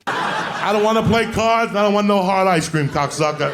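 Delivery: high, loud cocky refusal; loud defiant kid. Retold or imitated. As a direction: tell them off like a cheeky altar boy. Repeat of the defiant line.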